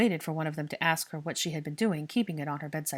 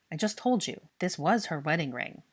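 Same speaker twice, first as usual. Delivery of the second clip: cross. Acted. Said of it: "Draco said crossly".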